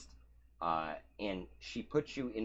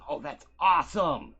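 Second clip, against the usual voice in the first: higher, quick gushing wrestler voice; excited wrestler; 10 semitones higher, 8 dB louder than usual. Acted. Wrestler gushing at the strong newcomer, excited and fast. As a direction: sound thrilled and eager.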